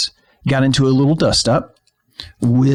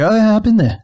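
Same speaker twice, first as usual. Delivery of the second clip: higher-pitched, hammed-up bad Australian accent; terrible Australian accent; 10 semitones higher, 4 dB louder than usual. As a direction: badly imitate an Australian guy. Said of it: "This is a terrible Australian accent".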